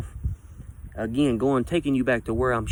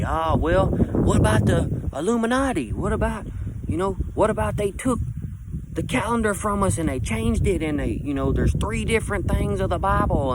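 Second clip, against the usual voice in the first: mocking conspiracy talk; 6 semitones higher than usual. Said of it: "you say".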